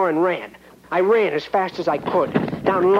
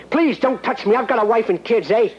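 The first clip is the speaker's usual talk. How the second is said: panicked scream; 6 semitones higher than usual. Acted. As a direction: shriek it out in a panic. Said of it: "I screamed".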